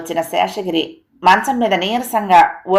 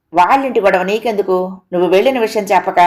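mildly annoyed, quickening toward the end; irritated. Acted. Husband to wife about her chatter, mildly irritated. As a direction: cut her off with a touch of impatience. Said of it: "అన్నాడు విసుగ్గా".

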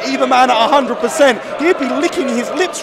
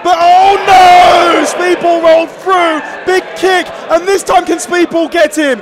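excited; 4 semitones higher, 4 dB louder than usual. Real, not acted. Commentator reacts to a reversal.

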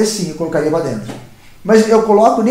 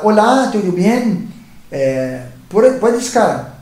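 slow, careful greeting; much slower than usual. Retold or imitated. Slow greeting to Arab woman.

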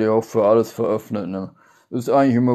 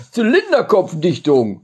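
drawn-out shout; 9 semitones higher, 5 dB louder, slower than usual. Shown as a demonstration. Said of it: "Die machen wir jetzt rückwärts".

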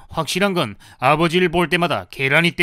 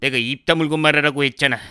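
ordinary talk

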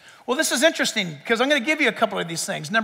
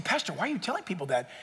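mock listener question; 7 semitones lower, 13 dB quieter, faster than usual. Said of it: "You say".

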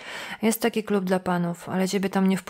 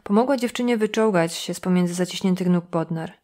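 plain reading voice

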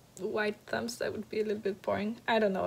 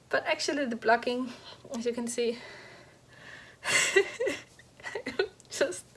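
out of breath. Real, not acted. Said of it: "so out of breath in this episode".

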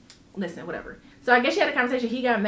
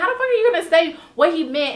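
laughing disbelief; 6 semitones higher, 4 dB louder, faster than usual. Real, not acted.

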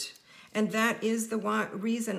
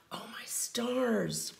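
mock dramatic; much slower than usual. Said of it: "being a little dramatic".

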